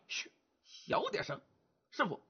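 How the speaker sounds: shushing, very soft whisper; hushed warning. Acted. Wukong tells Bajie to keep it down, whispered. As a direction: hiss a quick warning to keep quiet.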